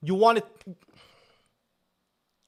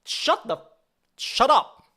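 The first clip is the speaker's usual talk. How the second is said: loud, high angry shut up; real irritated shout, much louder; 9 semitones higher, 5 dB louder, slower than usual. Real, not acted. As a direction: yell at the bot to stop. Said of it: "You're pissing me off".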